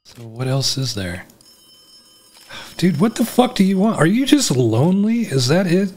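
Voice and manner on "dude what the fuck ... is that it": 1 mock taunting. Taunting a lurking game creature.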